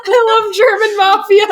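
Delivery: high, loud laughing delight. Real, not acted. Friend delighted by German mafia idea, laughing hard. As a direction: squeal it through laughter.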